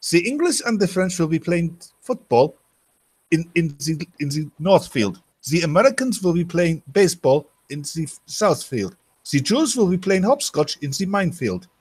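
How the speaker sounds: high-pitched German camp announcer; mock German accent. Joke announcer declares sports day, high mock German accent.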